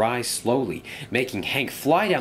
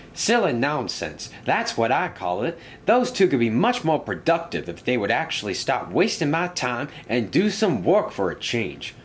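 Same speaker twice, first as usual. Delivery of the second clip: lightly voiced dismissive engine, raised pitch; grumpy engine; 4 semitones higher than usual. Engine dismissing his friend's reminder, mildly exasperated grumbling.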